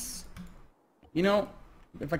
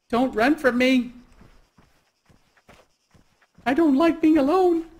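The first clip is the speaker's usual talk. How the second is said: creepy voice; 7 semitones higher, 3 dB louder than usual. Pretend. Creepy voice to stranger.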